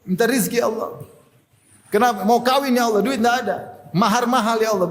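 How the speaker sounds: acted weepy plea, lightly done; mock tearful prayer. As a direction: plead as if crying in night prayer.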